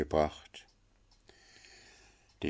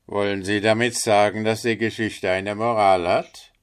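fast, louder, mildly indignant rat; indignant water rat; 3 semitones higher, 6 dB louder than usual. Acted. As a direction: challenge the linnet quickly and loudly. Water rat challenges the linnet. (empörte Wasserratte, schnell und lauter)

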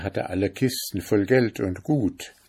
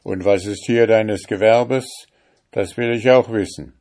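louder, pushy question; demanding judge; 3 semitones higher, 5 dB louder than usual. Acted. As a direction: press him for an answer. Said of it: "brummte der Richter". (fordernder Richter, etwas lauter)

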